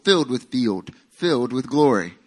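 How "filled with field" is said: country accent. Real, not acted. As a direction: let the country accent slip out. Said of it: "That's my country accent coming out".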